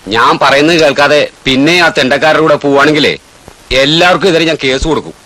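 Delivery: warning the boy off bad company, sternly; stern threat. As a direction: threaten firmly. Threatening to sue.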